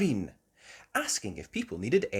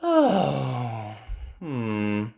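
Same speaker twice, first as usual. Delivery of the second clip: Mummy Sheep; 5 dB louder than usual. A narrator's reading. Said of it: "said Mummy Sheep".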